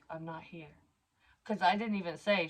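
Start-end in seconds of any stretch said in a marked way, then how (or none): 0.1-0.7 much softer, barely there; hushed. Retold or imitated. Telling her daughter silently she's hiding, hushed. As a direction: keep it hidden, hushed.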